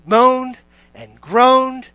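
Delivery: very slow, stretched-out words; lingering on each complaint; drawn-out moaning. Retold or imitated. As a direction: drag the words out like a moan. Mimics moaning while listing complaints.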